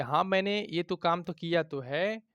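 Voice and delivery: तो stressed each time, insisting; said with emphasis. Shown as a demonstration. Teacher shows an emphatic reply, stressing तो. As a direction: say it with extra pressure. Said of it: "ज़्यादा pressure के साथ बोलते हैं".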